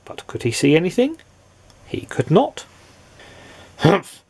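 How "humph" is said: loud annoyed humph; grumpy grunt. Acted. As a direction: grunt crossly. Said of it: "grunted Mister Grumpy".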